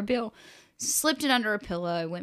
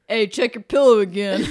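louder, laughing through it; sly laughing; 5 semitones higher, 10 dB louder than usual. Retold or imitated. Dad telling daughter to recheck, laughing. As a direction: barely hold back a laugh. Husband voiced, covering up.

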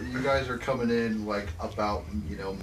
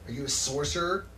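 put-on little girl voice; 4 semitones higher, faster than usual.

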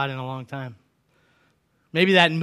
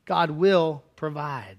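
slow reassurance; much slower than usual. Real, not acted. Slow repeated assurance.

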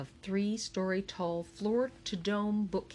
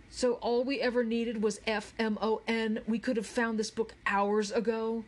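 higher-pitched indignant outburst; exasperated; 5 semitones higher, 3 dB louder than usual. Acted. Charles learns hours of searching were needless, exasperated outburst. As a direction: let loose at a useless partner, exasperated.

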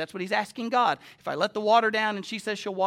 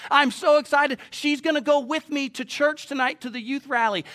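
raised, louder voice bursting with excitement; exuberant retelling; 6 semitones higher, 5 dB louder than usual. Retold or imitated. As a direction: retell a friend's happy, excited phone call. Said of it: "He called me in his exuberance".

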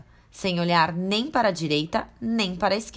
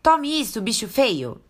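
fierce shout; 6 semitones higher, 3 dB louder than usual. Acted. Girl hits wolf with candelabra.

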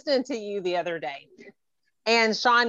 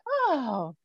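high, swooning "oh"; mock swoon; 7 semitones higher than usual. Host reacting to the guest's French accent, mock swoon. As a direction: melt at the sound of it, playfully.

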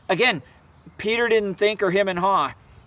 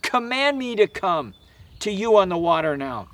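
retold yell; 2 semitones higher than usual. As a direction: call it out mildly as an imitated yell. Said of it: "caught himself and he yells".

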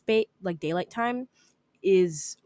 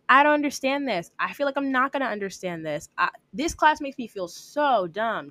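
whiny complaint; 5 semitones higher than usual. Retold or imitated. Voices a student cursing own success.

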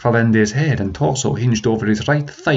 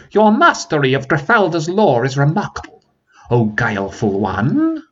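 a mock-polite dragon praising his foe; shrill dragon; 5 semitones higher than usual. Dragon praising the guileful prince, shrill and higher. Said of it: "taking on the shrill voice of the dragon".

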